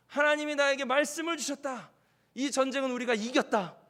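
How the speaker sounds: lightly acted rallying announcement; Joshua addressing troops. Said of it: "만약 제가 여호수아라면". (군사들에게 선포하듯 힘준 목소리)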